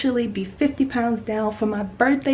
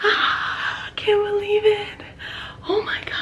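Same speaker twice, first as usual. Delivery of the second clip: overwhelmed disbelief; 9 semitones higher than usual. Real, not acted. Overwhelmed by her progress, high stunned disbelief. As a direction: let the disbelief float up high. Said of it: "I'm just so overwhelmed right now".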